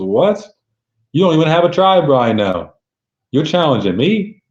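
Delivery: high, scoffing disbelief, lightly voiced; mocking disbelief. Solo scoffing at Reigns' challenge, high mocking disbelief.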